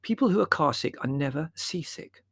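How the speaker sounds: high-pitched mother figure; lightly voiced mother; explaining mother.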